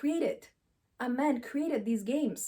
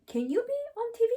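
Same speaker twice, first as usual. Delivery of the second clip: high, louder mocking challenge to a critic; sassy mock retort, much higher; taunting critics; 11 semitones higher, 3 dB louder than usual. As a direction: toss it back at the critic, taunting. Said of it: "I wanna say".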